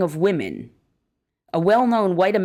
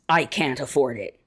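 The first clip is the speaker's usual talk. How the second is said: lower, subdued quoted statement; lightly voiced welfare recipient; 5 semitones lower than usual. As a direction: lightly quote a woman with no choice, pitched down. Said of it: "when a woman on welfare says".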